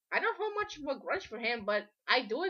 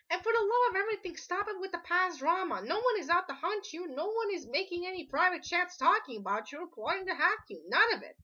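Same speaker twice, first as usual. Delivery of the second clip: exasperated plea; 5 semitones higher than usual. Real, not acted. Pleading rant to stop drama.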